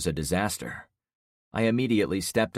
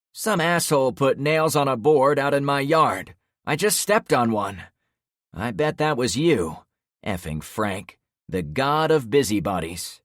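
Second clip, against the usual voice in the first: higher, loud furious rant; angry yelling; 7 semitones higher, 6 dB louder than usual. Acted. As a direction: rage at the man you blame. Trevor yelling with injured foot.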